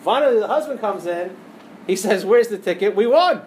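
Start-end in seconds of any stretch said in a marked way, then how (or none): 2.2-3.4 excited shout. Acted. Husband voiced, bursting in excited.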